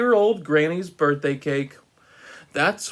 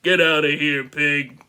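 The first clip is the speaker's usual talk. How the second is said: rude pig. Acted. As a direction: snap the misquote lightly. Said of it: "that rude little porker answered".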